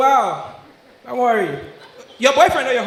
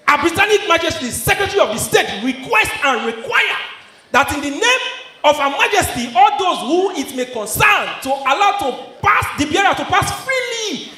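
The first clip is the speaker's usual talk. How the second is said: mock official reading; 2 semitones higher than usual. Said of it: "read am".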